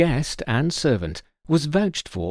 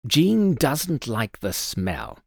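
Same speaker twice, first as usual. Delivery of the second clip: curt; much slower than usual. Acted. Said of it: "said curtly".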